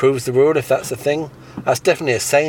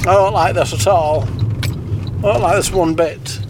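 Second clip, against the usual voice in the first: higher puppet voice, the repeat slowed right down; higher fussy puppet voice slowing into a sulk; prim puppet complaint; 6 semitones higher, slower than usual. Acted. Puppet voice complaining, the first take at pace, the repeat slowed.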